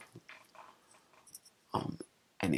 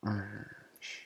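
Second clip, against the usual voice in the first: teacher shushing; 10 dB quieter, much slower than usual. Retold or imitated. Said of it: "the first grade teacher's like".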